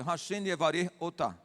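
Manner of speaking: Otá said with the stress on the last syllable; Hebrew blessing to a woman. Shown as a demonstration. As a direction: pastor blessing Lenita in Hebrew, carefully spoken. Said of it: "pra homem e pra mulher".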